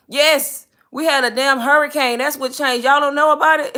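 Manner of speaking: loud, high indignant retort; snapping back. Retold or imitated. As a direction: snap back at the phone agent in disbelief. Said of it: "girl, I snapped when they said that".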